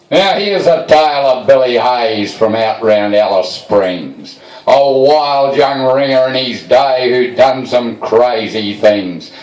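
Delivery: slow, measured poem reading; bush poem recitation. Acted. Reciting a friend's poem to the crowd, slow and measured. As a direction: lay out each line like a ballad.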